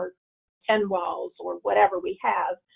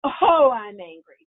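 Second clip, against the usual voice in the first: slow, louder, a touch of acted anger; slow mock anger; 6 dB louder, slower than usual. Shown as a demonstration. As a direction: drag it out as if noticing the anger. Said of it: "Now let's try applying".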